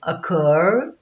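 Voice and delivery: "occur" with the stress on "cur"; stress on final syllable. Shown as a demonstration. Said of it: "Repara que o cur tá sublinhado". ("occur" com ênfase na sílaba final "cur")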